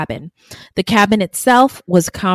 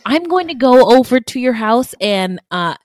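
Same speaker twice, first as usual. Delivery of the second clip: mock naive guy; 4 semitones higher than usual. Mocking naive victim's reply.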